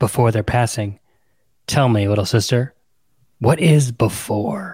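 soft, hushed whisper. Reading a novel aloud, a character asks his sister: whispering. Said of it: "Paul only whispers".

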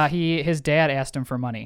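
ordinary talk

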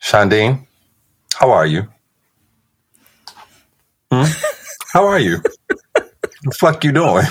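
very high, rising, swooping fake-annoyed tone. Greeting the host who has just introduced him on the show, mock-angry greeting. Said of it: "normally you ask me that a little nicer".

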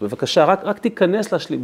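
earnest, begging voice. Telling how he asked a young man to complete a minyan, retelling his own begging. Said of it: "התחננתי בפניו".

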